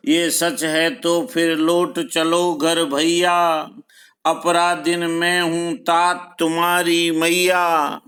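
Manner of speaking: measured, sustained poetry reading; verse recitation. Acted. Teacher reciting Kaikeyi's plea to Ram, measured verse recitation. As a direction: recite in even metre, drawing out line ends.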